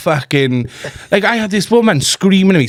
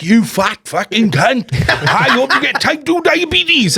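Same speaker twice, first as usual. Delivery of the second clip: slow, higher mock rant with a laugh; hammed-up higher rant, laughing; retold abusive rant; 7 semitones higher, slower than usual. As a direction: imitate a furious customer, laughing. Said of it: "She came back".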